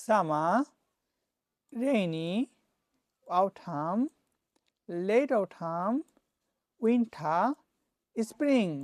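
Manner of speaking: slow spaced words for students to repeat; teacher leads a repeat-after-me drill of season names. Shown as a demonstration. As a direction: call out each season, pausing for the class. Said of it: "repeat after me".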